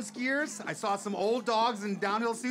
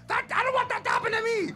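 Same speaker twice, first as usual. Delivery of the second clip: alarmed; 10 semitones higher, faster than usual. Retold or imitated. Fearing a crash before his run.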